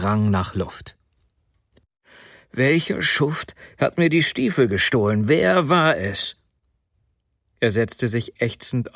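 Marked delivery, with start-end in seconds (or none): 2.5-6.4 higher-pitched, acted outrage; indignant outburst. Sobotka discovers his boots were stolen, indignant outburst. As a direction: demand to know the culprit, rising in pitch at the end. Robbed man demands the culprit.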